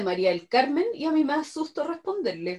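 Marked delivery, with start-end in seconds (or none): 0.0-0.8 stern mom. Acted. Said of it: "mi mamá me dice".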